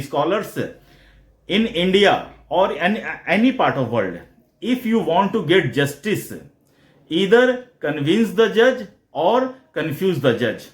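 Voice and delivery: very slow, deliberate quoting of the maxim; quoting the law teachers. Retold or imitated. Quoting law teachers to viewers, very slowly and deliberately. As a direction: spell out each word of the saying slowly. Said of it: "उन्होंने हमें ये बताया था कि".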